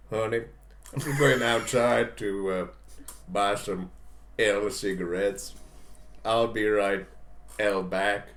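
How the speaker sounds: slow, halting mock Spanish accent; badly faked Spanish accent, drawn out. Shown as a demonstration. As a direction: fake a Spanish accent, picking through the words. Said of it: "I'll do a Spanish accent".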